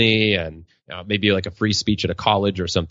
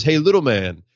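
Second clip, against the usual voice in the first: put-on higher and slow, gentle nudge to a boy; friendly rock wall guy; 7 semitones higher, slower than usual. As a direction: coax the kid kindly, drawn out. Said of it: "He says".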